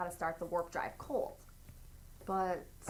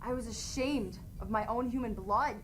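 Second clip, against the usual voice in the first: emotional Spock. Acted. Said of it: "Spock ... makes him emotional".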